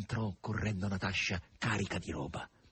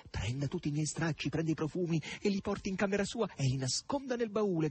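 calling out; 6 semitones higher than usual. A narrator's reading. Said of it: "gridava Margherita".

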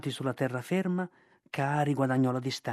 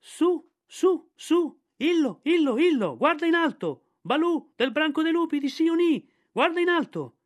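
very high, loud bird cry from above; shrill kite calling; 13 semitones higher, 6 dB louder than usual. Acted. The kite Ran shouts down to Balù, very high bird call. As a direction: call down from the sky like a circling kite.

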